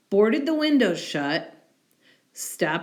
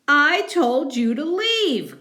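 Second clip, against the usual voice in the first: higher, louder angry bear; angry bear cry; 9 semitones higher, 5 dB louder than usual. Acted. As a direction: bear yells at the mouse. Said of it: "cried Bear".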